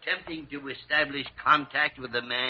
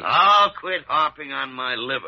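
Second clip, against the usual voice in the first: loud bickering; 6 dB louder than usual. Acted. Doctors bicker over liver.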